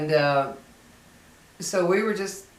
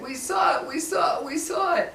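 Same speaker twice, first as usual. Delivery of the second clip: much higher, shouted insistence; kids shouting; 11 semitones higher than usual. Retold or imitated. Retelling the crying kids insisting to parents, high shout. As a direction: yell it like terrified kids. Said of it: "they were crying and crying".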